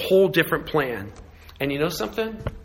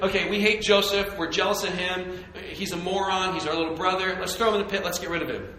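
a hint of scheming brothers, softer; mock plotting brothers; 4 semitones higher, 4 dB quieter than usual. Jealous brothers plot against Joseph, softly scheming. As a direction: lightly voice the brothers conspiring.

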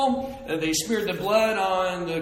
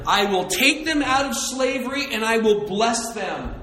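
loud, soaring preacher's build; preaching at full force; 4 semitones higher, 4 dB louder than usual. Acted. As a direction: preach it out, raising the room. Preaching climax.

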